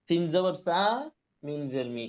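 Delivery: teacher models সামি with short, unstretched vowels; short crisp vowel. Shown as a demonstration. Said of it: "এই যে দেখেন".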